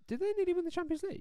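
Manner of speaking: high, fast Scottish voice; quick jokey Scottish accent. Pretend. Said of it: "you just did a Scottish accent".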